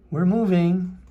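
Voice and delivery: high, loud, joyful cry; a boy's thrilled shout as the car moves; happy shout. A narrator's reading. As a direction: shout it with delight. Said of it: "he shouted happily".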